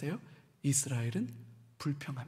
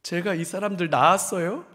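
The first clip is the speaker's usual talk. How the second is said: rising louder pleading; despairing Moses; 2 semitones higher, 4 dB louder than usual. Retold or imitated. Moses cries out to God, an exasperated plea. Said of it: "하나님 앞에 뭐라고 말하냐면".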